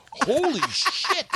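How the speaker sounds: drawn-out, high-pitched awe; mock astonishment. Onlooker reacts to the worst bombing, astonished. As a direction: stretch it out high, stunned. Retold awe after witnessing knockout.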